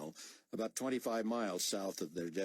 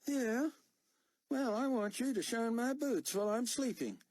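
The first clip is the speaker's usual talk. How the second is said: put-on higher, louder sneering young soldier; mocking young corporal; 4 dB louder than usual. Corporal sneering at Buck's refuelling order, higher and mocking. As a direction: sass back at an officer you doubt.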